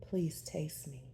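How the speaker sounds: slow, hushed begging; begging softly. Acted. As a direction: plead in a breathy whisper. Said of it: "I beg".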